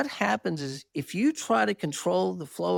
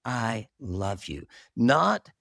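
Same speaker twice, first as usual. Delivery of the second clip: tender voice of Jesus; 6 semitones lower than usual. Retold or imitated. Jesus reassures the speaker of his love, low and tender. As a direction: hold him close with each word.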